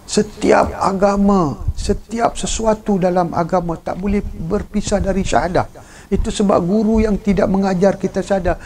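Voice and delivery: a preacher hammering doctrine home; forceful preaching. Acted. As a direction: press the point on the congregation. Preacher raising his voice.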